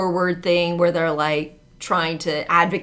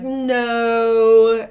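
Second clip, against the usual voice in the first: British king; 4 semitones higher than usual. Retold or imitated. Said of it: "'cause it was British".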